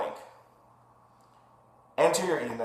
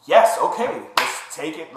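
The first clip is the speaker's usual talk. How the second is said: retold eager agreement; 3 semitones higher, 4 dB louder than usual. Patient accepting the doctor's procedure offer, retold eager agreement. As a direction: act out jumping at an offer.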